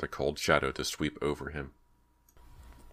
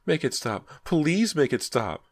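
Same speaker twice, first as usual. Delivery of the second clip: high, loud, slow drawn-out plea; shrill terrified cries; 12 semitones higher, 4 dB louder, slower than usual. A narrator's reading. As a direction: wail the please, stretched and shrill. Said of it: "Her cries grew even shriller".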